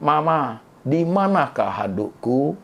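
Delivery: lightly hammed-up poetic politeness; mock psalm-reading. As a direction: ask it like reciting a Psalm. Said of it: "Itu baca Mazmur".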